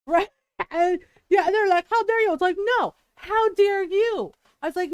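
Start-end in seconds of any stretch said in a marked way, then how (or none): 1.9-2.3 indignant. Retold or imitated. Tita's outraged retort retold. 2.8-4.3 mock indignant. Throwing the retort back.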